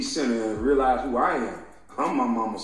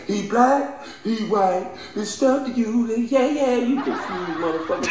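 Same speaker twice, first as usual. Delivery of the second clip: high mocking voice; 10 semitones higher than usual. Mocking a caller.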